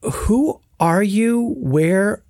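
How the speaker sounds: slow, measured, pleasantly composed questions; very calm voice. Retold or imitated. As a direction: imitate someone calmly asking, words drawn out. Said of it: "in a very calm voice".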